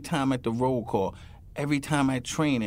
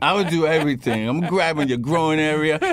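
excited loud; 6 dB louder than usual. Real, not acted. Excited laughing escalation.

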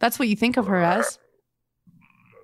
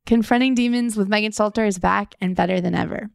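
podcast promo read; 2 semitones lower than usual. Acted.

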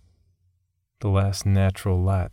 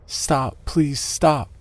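pleading; 7 semitones higher, much slower than usual. A narrator's reading. She begs him to stop.

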